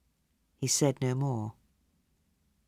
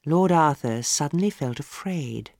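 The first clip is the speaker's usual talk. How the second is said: ordinary delivery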